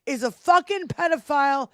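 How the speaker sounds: real outrage, pitch pushed up; high, vehement political tirade; worked-up rant. Real, not acted. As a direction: rant as if about to bust a blood vessel. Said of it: "He's gonna bust a blood vessel".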